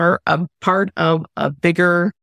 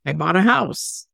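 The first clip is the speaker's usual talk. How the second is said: bright, rising, higher boasts building up; proud announcement; 8 semitones higher than usual. Pretend. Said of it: "what would be the harm in just saying".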